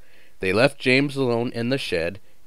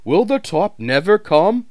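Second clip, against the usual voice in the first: straining; 10 semitones higher, 6 dB louder than usual. A narrator's reading. Straining up hill.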